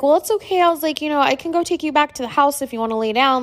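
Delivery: high, soothing reassurance; imitating oneself reassuring someone; retold reassurance. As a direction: comfort grandma in a lifted, light voice. Reassuring tired grandmother, retold.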